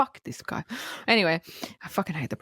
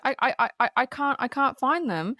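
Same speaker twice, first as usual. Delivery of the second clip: higher, stammering retold panic; frantic; 5 semitones higher than usual. Girlfriend hunting for keys in her bag, mock frantic. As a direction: stumble over the words, mildly flustered. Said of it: "she's frantic".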